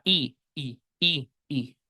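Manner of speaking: quiet drawn-out i sound; long I demo. Shown as a demonstration. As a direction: stretch the vowel i softly. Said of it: "la I larga". (i larga pronunciada suave)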